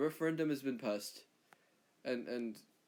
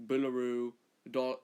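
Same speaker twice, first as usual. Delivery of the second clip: Australian slang; slower than usual. Shown as a demonstration. Australian listing fake words, hammed-up Australian accent. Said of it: "say fake words like".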